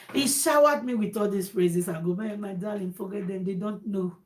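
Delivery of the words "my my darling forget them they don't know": lightly voiced soothing husband, softer; hushed, mild comforting; retold reassurance. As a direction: soothe a darling quietly, as a retold quote. Retold husband soothing his wife.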